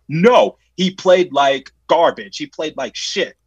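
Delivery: slow, emphatic mock outrage, dropping in volume at the end; retold confrontation. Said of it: "I'm getting in that parent's face".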